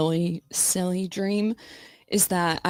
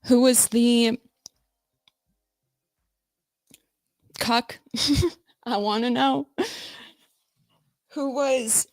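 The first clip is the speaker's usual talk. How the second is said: gossipy excitement; 5 semitones higher than usual. Acted. Gossip history channel pitch.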